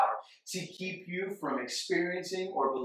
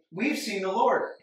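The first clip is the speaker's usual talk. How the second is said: slow, high and joyful; excited announcement; 6 semitones higher, 4 dB louder than usual. Shown as a demonstration. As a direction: tell it like wonderful news. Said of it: "his natural is".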